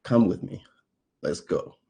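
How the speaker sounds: ordinary delivery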